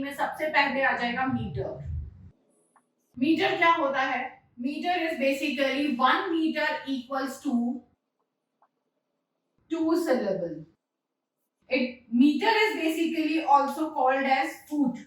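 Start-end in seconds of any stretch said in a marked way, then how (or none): 4.6-10.6 drawn-out definition with a long pause; slow dictation. Real, not acted. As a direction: dictate it slowly for note-taking. Dictating definition while writing it. (धीमी गति से परिभाषा लिखवाते हुए)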